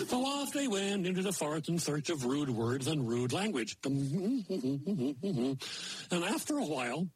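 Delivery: a lightly voiced moose telling a fairy tale; folksy moose storyteller. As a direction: tell it like a folksy old moose. Maynard Moose tells a folk tale.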